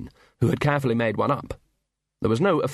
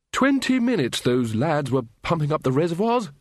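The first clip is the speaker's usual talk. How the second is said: lightly voiced hearty wizard; slightly raised, impressed tone; hearty Ridcully; 5 semitones higher than usual. A narrator's reading. Wizard dusts himself off after the blast, mildly hearty.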